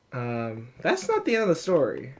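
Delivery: ordinary talk, nothing marked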